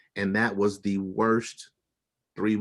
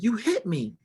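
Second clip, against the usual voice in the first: milder imitated shriek; retold scream; 10 semitones higher than usual. Wife repeating her accusation, retold in high pitch. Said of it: "and she screamed".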